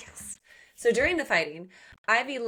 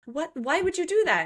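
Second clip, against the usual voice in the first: high-pitched mock dismay; acting out a shocked protest; retold alarm; 9 semitones higher than usual. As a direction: cry out in retold disbelief. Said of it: "he falls down, and he's, like, bleeding".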